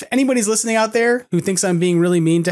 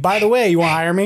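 laughing tease; 3 semitones higher, faster than usual. Retold or imitated. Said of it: "And then I'd be like".

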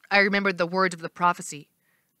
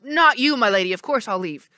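nervous; 3 semitones higher, 3 dB louder than usual. Acted. Janus apologizes.

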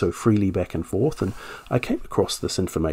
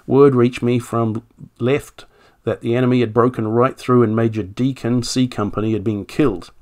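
reading an officer's statement in a light generic British accent; 2 semitones higher, 4 dB louder than usual. Shown as a demonstration. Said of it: "just do a generic accent".

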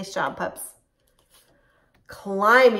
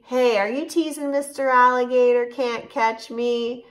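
teasing monkey; 5 semitones higher, 4 dB louder than usual. Acted.

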